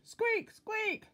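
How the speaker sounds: very high squeaky squeal; piercing little mouse cry; noisy mouse. A narrator's reading. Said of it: "they'd roar at each other".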